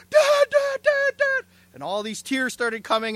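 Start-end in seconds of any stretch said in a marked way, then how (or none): 0.1-1.5 imitated high, loud cries for help; shouting in pain. Acting out an injured training partner calling Dad, pained high shouting. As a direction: yelp it out repeatedly, mimicking someone hurt. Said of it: "she was just shouting in pain".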